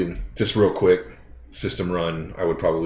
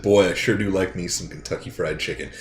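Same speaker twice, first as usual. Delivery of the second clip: put-on easy American Southern accent at usual pitch. Player showing his English buddy what to say, understated Southern accent. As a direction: say it in your own Southern accent. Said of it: "say in your Southern accent".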